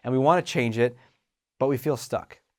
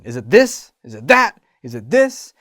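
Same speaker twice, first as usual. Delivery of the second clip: frantic searching; 9 dB louder than usual. Retold or imitated.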